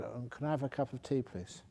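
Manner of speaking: soft, meek request for tea; very polite. Retold or imitated. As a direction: ask timidly, trailing off quietly. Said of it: "Very polite".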